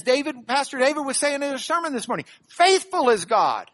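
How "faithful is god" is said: "faithful" punched loud, slow finish; emphatic. Shown as a demonstration. Preacher quotes this morning's sermon, emphatic stress on "faithful". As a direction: declare it slowly, weight on "faithful". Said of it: "he's emphatic on it".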